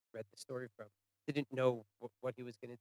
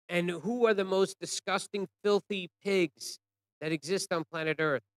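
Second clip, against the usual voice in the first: raised, higher retold question; mildly raised guard's demand; guards calling out; 4 semitones higher, 3 dB louder than usual. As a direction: call it out like a guard to prisoners. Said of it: "the guards would call out".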